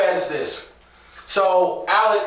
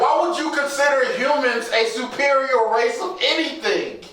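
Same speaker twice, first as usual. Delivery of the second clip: higher, exasperated question; incredulous challenge; 6 semitones higher than usual. Acted. Co-host challenging alien Supergirl on joining Nazis, incredulous. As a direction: demand an answer in disbelief.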